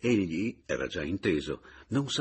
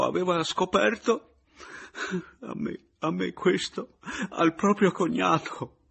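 higher, louder, breaking through suppressed weeping; holding back tears; 7 semitones higher, 5 dB louder than usual. A narrator's reading. Papiano explaining to Meis, stifling sobs. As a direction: talk through tears you try to swallow. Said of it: "impedito dal pianto che voleva pur soffocare".

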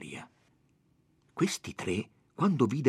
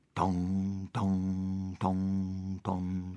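bell tolling; 4 semitones lower, 4 dB quieter, much slower than usual. Acted. Imitating the alarm bell.

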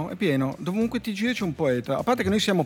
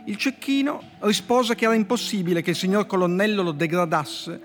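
dry literary fable reading; story reading; 4 semitones higher than usual. Acted. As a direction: read the fable like a deadpan poet. Poet reads his fable aloud.

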